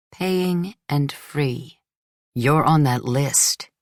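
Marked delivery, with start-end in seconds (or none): 2.3-3.7 slow, weighted words; emphatic. A narrator's reading. Drunk fiancé boasts to his bride, slow and emphatic. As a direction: lean on each word slowly. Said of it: "he said emphatically".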